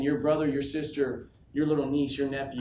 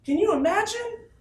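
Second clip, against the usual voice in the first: a slow, booming, much higher shout of the question; 6 dB louder, slower than usual. Real, not acted. Speaker to his sales team, roaring the question. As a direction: roar it to lift the whole room. Hyping crowd about big event.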